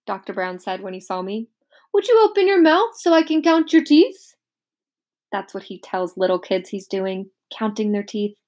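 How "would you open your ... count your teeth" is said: higher, jolly dentist voice. A narrator's reading. Dentist asking Peter to open up, jolly and high. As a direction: play the kindly dentist.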